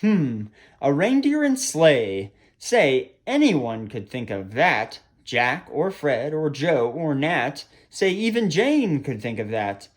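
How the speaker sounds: lilting rhymed storytime reading; animated storyteller with expressive rises and falls; children's story narration. A narrator's reading. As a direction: read a verse picture book to children. Reads a rhyming picture book.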